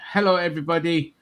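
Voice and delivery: put-on German accent. Presenter greets the audience, mock German accent. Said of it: "doing that bloody accent".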